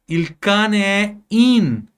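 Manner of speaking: careful slow teacher read; slow example sentence. Shown as a demonstration. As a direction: spell out the example slowly for students. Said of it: "Esse in indica que tá dentro de casa".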